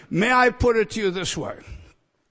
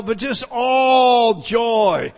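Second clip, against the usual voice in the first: shouted all joy; 3 semitones higher, 6 dB louder, much slower than usual. Acted. Preacher correcting a misreading.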